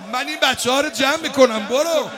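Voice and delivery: urging. Acted. Sister urges brother, repeated more forcefully.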